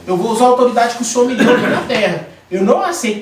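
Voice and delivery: retold prayer of rebuke with rising force; forceful prayer. Man praying to God against his sickness, forceful prayer.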